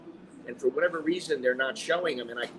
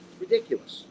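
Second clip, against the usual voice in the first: exasperated squeak. Real, not acted. Exasperated outburst.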